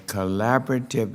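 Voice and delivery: "collaborative" picked out with clear emphasis; stress on collaborative. Real, not acted. Chair naming the key to the hearing, "collaborative" emphasized. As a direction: lean firmly on the word "collaborative". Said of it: "I want to emphasize that word".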